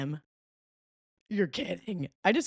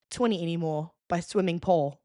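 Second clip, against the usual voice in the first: song title in a put-on British accent; lightly faked British announcing; mock British accent. Vlogger introducing a British singer's song, mock British accent. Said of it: "for those of you who don't speak British".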